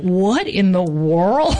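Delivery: slow, drawn-out amazement; amazed. Retold or imitated. Organiser reacts to the agent's surprise yes, astonished. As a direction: stretch it out in retold disbelief.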